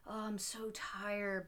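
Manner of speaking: slow, lightly acted tiredness; a touch of acted exhaustion; mock weariness. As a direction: draw it out as if worn out. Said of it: "where he's just like".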